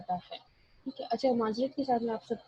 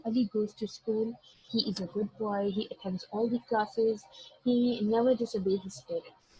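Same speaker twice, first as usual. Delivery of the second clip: slow example sentence; much slower than usual. Shown as a demonstration. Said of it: "तो अगर मैं कहूँ".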